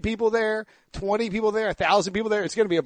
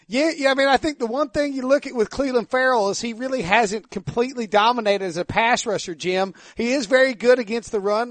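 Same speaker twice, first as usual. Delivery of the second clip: mock North Carolina redneck accent, pitched higher; Eastern North Carolina redneck accent; 4 semitones higher than usual. Shown as a demonstration. Host imagining a radio interview in a North Carolina redneck accent. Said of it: "that's an Eastern North Carolina redneck accent".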